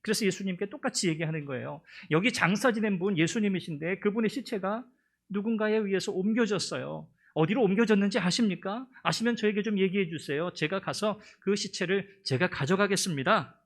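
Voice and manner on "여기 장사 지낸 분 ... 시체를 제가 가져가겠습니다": raised, urgent plea; pleading Mary. Acted. Mary begs the man she thinks is the gardener, pleading. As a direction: beg the gardener for the body.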